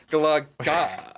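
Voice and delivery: Galaga drawn out slowly through laughter; laughing slow try. Shown as a demonstration. Trying the new stress on Galaga, laughing. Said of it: "the inflection is on the la".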